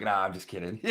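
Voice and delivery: laughing it off quickly; laughing take-back. Retold or imitated. Caller retracting a creepy joke, laughing softly. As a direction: chuckle through it, easing off. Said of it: "I immediately was like".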